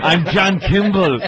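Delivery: mock Austrian action-star introduction; German accent. Action hero introducing himself to the audience, German accent. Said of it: "With that awful German accent".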